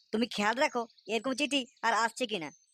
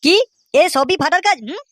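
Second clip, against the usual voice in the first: furious father yelling; 3 semitones higher, 13 dB louder than usual. Acted. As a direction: roar for the boy to come out. (রেগে আগুন বাবার চিৎকার)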